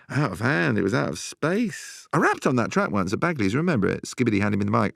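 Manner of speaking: high-pitched euphoric rush with laughs; manic party high. Acted. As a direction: relive the rave like you're still buzzing. Manic memory of rave night.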